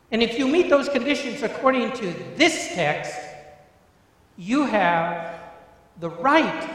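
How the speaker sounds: pounding the word right; rising preaching emphasis. Real, not acted. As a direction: drive the point home from the pulpit. Preacher building on key word.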